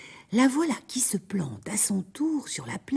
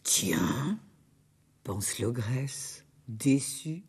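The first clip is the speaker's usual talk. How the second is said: grumbling ogress; 9 semitones lower, 8 dB quieter, much slower than usual. Acted. Pensée de l'ogresse déçue.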